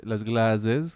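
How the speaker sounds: "clases" said with an Italian lilt, rising; imitating an Italian accent on "clases". Imitating the student's Italian accent on "clases". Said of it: "como los italianos".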